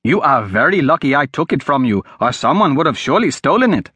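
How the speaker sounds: lightly voiced eager lad, reassuring; a hint of a helpful boy's voice; eager street boy.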